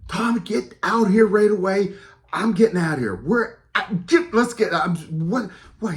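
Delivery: yelling. Retold or imitated. Calling Tom back from the haunted bridge, frantic yell. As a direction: shout for Tom to come out, frantic. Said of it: "I start yelling".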